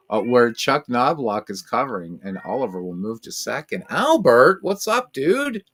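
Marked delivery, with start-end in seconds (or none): 3.9-5.6 much higher, sing-song greeting to a cat; pet voice. Real, not acted. Greeting his cat Albert.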